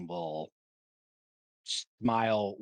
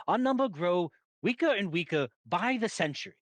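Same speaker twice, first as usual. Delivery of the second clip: high, loud, indignant rebuke; impassioned in-character protest; heated argument; 9 semitones higher, 5 dB louder than usual. Acted. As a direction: argue forcefully in council, pitch raised. Acted council quarrel over attacking.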